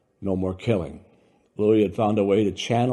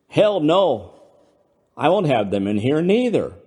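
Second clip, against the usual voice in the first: loud, higher indignant bluster; 7 semitones higher, 6 dB louder than usual. Acted. Louis ranting to Brando about fairies, loud bluster. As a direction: huff it out, offended.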